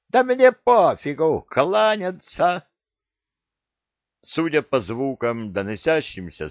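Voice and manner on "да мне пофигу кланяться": screeching order. Acted. Parrot yells at crew.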